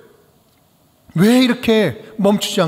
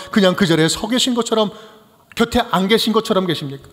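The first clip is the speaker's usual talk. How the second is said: complaining question; 3 semitones higher than usual. Retold or imitated. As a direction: cry out to God, pleading and accusing. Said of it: "세 번째 의심의 질문이죠". (하나님께 높게 호소하는 목소리)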